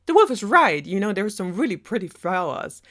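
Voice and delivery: lightly voiced happy realization; naive girl. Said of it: "Little Red is like".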